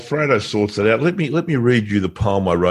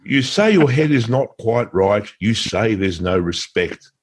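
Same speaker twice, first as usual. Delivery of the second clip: poem recital. Pretend. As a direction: recite it like an old epic ballad. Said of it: "I wrote it in the style of Lord Babington Macaulay".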